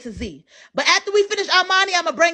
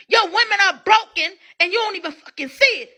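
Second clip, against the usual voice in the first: shouting; 3 semitones higher than usual. Retold or imitated. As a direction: yell it like a hot take. Repeats his comment, shouting.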